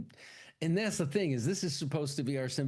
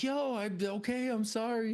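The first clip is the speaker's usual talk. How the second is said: higher, lightly voiced sheepish guy; mock sheepish; 11 semitones higher than usual. Bruce apologizing to her, lightly higher sheepish. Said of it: "he's like".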